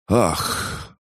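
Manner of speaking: sharp gasp of sudden pain. A narrator's reading. Hero gasps as pain strikes his spine, a sharp gasp. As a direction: gasp as the pain shoots through.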